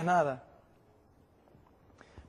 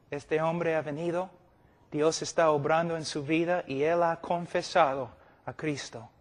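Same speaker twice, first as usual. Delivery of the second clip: careful calm announcement. Shown as a demonstration. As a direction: present him gently and soberly. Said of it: "Es mejor decir".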